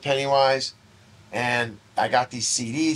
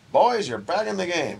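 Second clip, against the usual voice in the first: slick lawyer; 5 semitones higher than usual. Retold or imitated. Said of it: "Our lawyer called us and was like".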